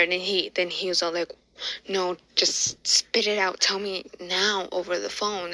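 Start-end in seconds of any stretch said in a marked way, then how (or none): 1.9-5.5 mildly snappy retold order; lightly acted snappy demand. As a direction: put a touch of impatience into it. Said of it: "he was kinda snappy that day".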